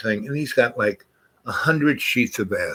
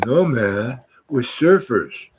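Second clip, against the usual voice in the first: surfer dude; 3 semitones higher, 3 dB louder, slower than usual. Retold or imitated. Voicing the California surfers.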